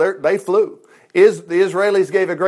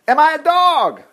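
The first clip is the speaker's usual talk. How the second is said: roaring giant; 8 semitones higher than usual. Acted. Goliath roaring at David in scorn. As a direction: bellow it at the boy. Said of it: "he roared at David".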